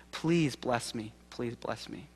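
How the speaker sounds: soft, slow, hushed plea; a hushed desperate plea for a blessing; quiet pleading. Acted. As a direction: beg gently, almost breaking. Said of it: "he pleads with him".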